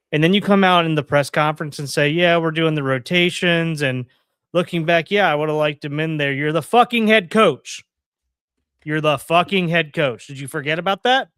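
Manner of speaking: loud, incredulous outburst; exasperated rant. Real, not acted. Fan berating the head coach over his press conference, exasperated.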